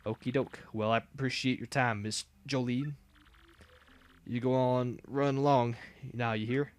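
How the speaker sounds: lightly voiced Southern redneck, slow; a hint of a folksy Southern boss; easygoing Southern redneck twang; redneck drawl. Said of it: "I know how to talk like a redneck now".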